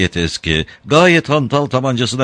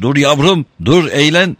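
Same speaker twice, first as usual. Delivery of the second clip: panicked pleading; 7 semitones higher, 4 dB louder than usual. Acted. Old man pleads at gunpoint.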